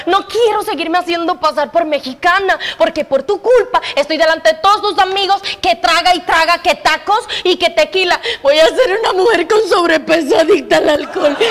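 put-on Cuban faking a Mexican accent, fed up; exasperated wife in a put-on Mexican accent; fake Mexican accent. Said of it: "¿Y por qué sigues hablando así?". (acento mexicano fingido, harta)

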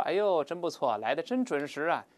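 lightly acted mock praise; a touch of ironic admiration; heavy sarcasm. George praising someone four hours late, mildly sarcastic. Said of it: "带着深深的讽刺的语气说".

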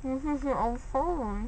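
slurred through a numb tongue; numb mouth. Real, not acted. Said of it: "it's her tongue's coming numb".

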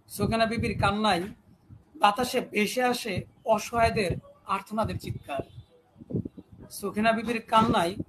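measured declamation with long pauses between phrases; poem recitation. Acted. Host reciting a protest poem to viewers, declaimed. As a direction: recite it line by line, letting refrains ring.

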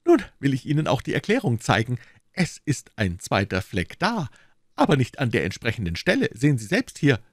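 a self-satisfied detective pleased with himself; Lestrade, smug inspector. Acted. Lestrade voiced by narrator.

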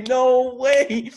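high, loud amused protest; laughing disbelief. Retold or imitated. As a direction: burst out in giddy disbelief. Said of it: "I say".

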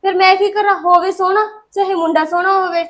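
loud snapping retort; angry retort. Acted. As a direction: throw it back at her. Daughter snaps back.

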